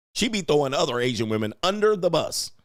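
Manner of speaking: normal talking voice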